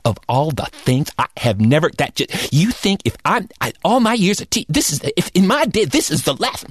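spluttering teacher. Retold or imitated. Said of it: "she didn't finish a sentence".

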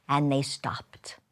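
whispered, slow and low; hushed. A narrator's reading. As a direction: drop to a breathless whisper as it ends. Tense climax, sudden stop.

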